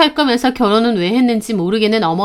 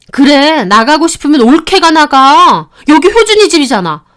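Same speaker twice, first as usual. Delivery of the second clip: louder, higher, backing her mother; sneering sister-in-law; 4 semitones higher, 4 dB louder than usual. Acted. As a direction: taunt the daughter-in-law to leave. Sister-in-law joining the quarrel. (비꼬며 거드는 시누이)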